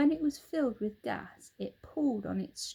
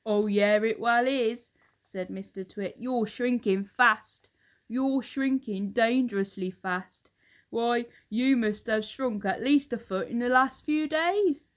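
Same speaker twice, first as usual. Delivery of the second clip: put-on a louder, gloating old husband; Mr Twit; 2 semitones higher, 6 dB louder than usual. Husband taunts his wife, loud and gloating. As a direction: lean in, relishing the lie.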